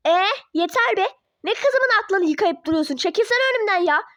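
rough exasperated shout at the teacher; angry yell. Acted. Parent scolding the teacher for brainwashing. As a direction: tell him off and shove past.

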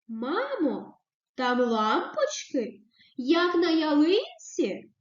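slow wondering question, "ялинці" asked with a questioning tune. Shown as a demonstration. Teacher reads a child's wondering question to mum, slowly. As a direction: ask it slowly, full of wonder. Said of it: "З питальною".

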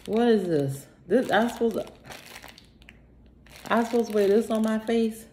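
baffled who-is-these; incredulous. Real, not acted. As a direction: react like it's absurd.

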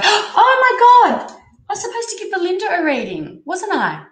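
oh no, I forgot her; sudden panic. Real, not acted. Reader remembering a promised reading to Belinda, flustered. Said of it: "I'm getting far too excited".

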